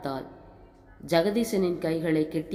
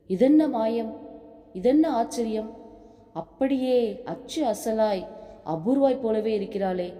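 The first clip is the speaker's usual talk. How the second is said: astonished exclaim; 4 semitones higher than usual. Acted. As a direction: voice leaps up in wonder, then slows to a marvel. Son stunned seeing aunt's photo.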